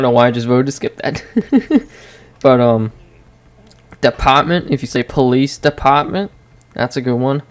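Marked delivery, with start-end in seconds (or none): 4.0-4.7 "department" as a Bostonian says it, "depahtment"; Boston accent. Shown as a demonstration. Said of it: "like, a Bostonian accent". 5.0-6.3 "police department" with Boston r-dropping; Boston accent. Shown as a demonstration. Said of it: "like, a Bostonian accent".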